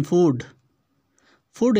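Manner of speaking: फूड with a long "oo"; different long U. Shown as a demonstration. Teacher picks out the different word, long oo in फूड. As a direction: lengthen the vowel in फूड. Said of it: "यहाँ पर different sound है".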